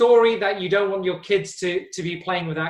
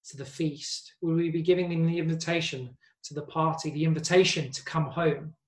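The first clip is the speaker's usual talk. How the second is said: earnest prayer. Acted. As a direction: pray it aloud to the congregation. Leads a prayer.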